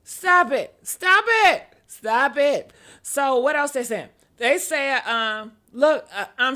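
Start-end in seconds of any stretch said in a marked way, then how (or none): 0.1-2.7 mock scolding. Scolding commenters.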